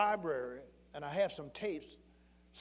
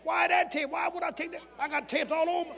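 high, loud astonished cry; a high shout of disbelief; amazed outcry; 9 semitones higher, 6 dB louder than usual. Retold or imitated. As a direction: cry out in wonder at the tape. Preacher recalling amazed reaction.

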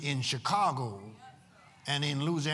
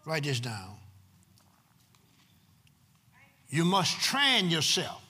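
emphatic preaching with long pauses between phrases; 7 semitones higher, 4 dB louder, slower than usual. Real, not acted. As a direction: drive each phrase home to the congregation. Preaches to the congregation.

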